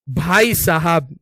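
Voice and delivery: slow, stretched भाई साहब; comic slow-motion exclamation; drawn-out exclamation. Real, not acted. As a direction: drag out भाई साहब for effect. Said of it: "drawn-out exclamation".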